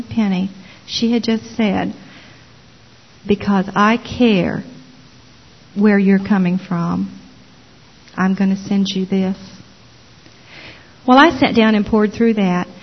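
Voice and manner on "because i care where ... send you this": gentle sincerity. Retold or imitated. Retelling Barb's caring words.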